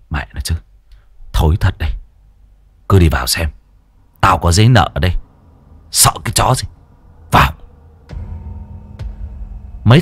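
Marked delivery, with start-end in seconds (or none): 0.1-7.5 a lightly lower, curt boss voice; gruff gang boss. Acted. Boss Tuấn to his men, lightly gruff. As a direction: brush off the fear, bark the order.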